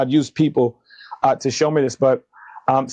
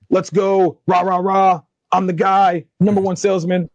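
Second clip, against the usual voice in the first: hype; 5 semitones higher than usual. Retold or imitated. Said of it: "I'm like".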